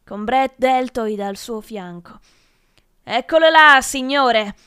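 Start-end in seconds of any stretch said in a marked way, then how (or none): 3.0-4.6 loud, high cry of accusation; exclaiming. A narrator's reading. Brett reporting the narrator to the professor, exclaiming loudly. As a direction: call it out to the teacher, pointing out the culprit. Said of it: "esclamò Brett".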